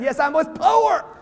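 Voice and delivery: open pride. A speaker shows listeners how they should answer the question: proud. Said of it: "Say it like you're proud".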